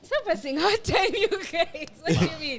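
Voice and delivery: laughing, high-pitched protest. Real, not acted. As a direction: squeal it through laughter. Laughing denial of dating tease.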